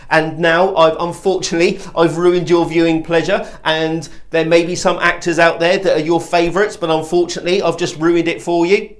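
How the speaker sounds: uncertain actor's lilt, lifting at "pleasure" and "you"; tentative delivery, rising on "you"; upward voice tones. Shown as a demonstration. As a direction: end "pleasure" and "you" like questions. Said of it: "And it will go like this".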